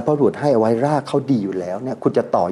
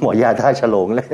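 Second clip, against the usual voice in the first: chuckling through the words; laughing. Real, not acted. Owner laughing about his design. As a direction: laugh at his own joke.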